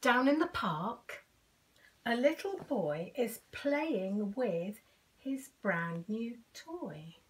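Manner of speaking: lively picture-book read-aloud; reading to children. A narrator's reading. Reading a picture book to children, lively. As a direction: read it to little kids, bright and clear. Story narration.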